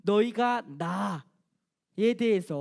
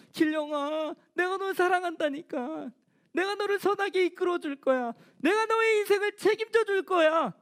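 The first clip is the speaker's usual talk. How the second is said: raised, fervent divine voice, higher; God's voice calling; 5 semitones higher than usual. Acted. Pastor voicing God to young Gilryeong, raised and fervent. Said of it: "또 찾아오셔서".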